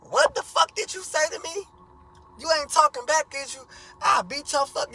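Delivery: loud, high furious yell; going off. Retold or imitated. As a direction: blow up at him, screaming. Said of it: "just going off".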